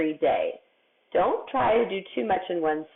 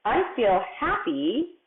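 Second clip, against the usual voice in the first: slow reread; 5 semitones higher, slower than usual. Shown as a demonstration. Rereading the sentence slowly.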